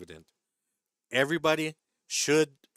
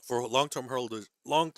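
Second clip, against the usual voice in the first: choking on coffee. Real, not acted. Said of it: "I'm choking the coffee".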